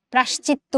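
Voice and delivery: প্রাশ্চিত্ত as "prashchitto", the "yo" swallowed; the mistaken প্রাশ্চিত্ত, straight from "pra" to "sh"; wrong contracted form. Shown as a demonstration. Teacher warning students, প্রাশ্চিত্ত with the middle vowel lost. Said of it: "প্রাশ্চিত্ত বলি না".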